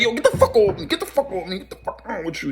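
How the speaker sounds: high-pitched freak-out retold; bugging out. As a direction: imitate someone squealing to be left alone. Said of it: "He start bugging".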